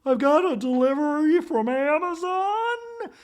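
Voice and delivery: high, loud, slow put-on voice; squeaky fake delivery-man voice; weird delivery voice. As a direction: play the delivery guy in a strange high voice. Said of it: "Kathy in a weird voice goes".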